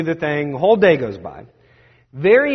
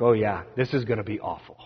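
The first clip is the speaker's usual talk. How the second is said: resigned mutter; 7 semitones lower, 7 dB quieter than usual. Retold or imitated. Friend's resigned reply.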